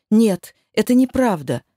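desperate outcry; loud denial. Acted. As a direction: refuse to believe it, loudly. Героиня отрицает в ужасе. (громкое отчаянное отрицание)

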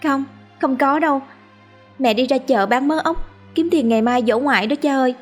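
put-on a girl afraid of her drunk father; scared child. A narrator's reading. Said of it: "sợ hãi đáp". (bé gái sợ hãi, giọng cao)

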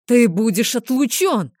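громкий драконий рёв отца; проревите как разъярённый дракон. A narrator's reading. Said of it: "вторил ему драконьим рёвом отец". (драконьим рёвом)

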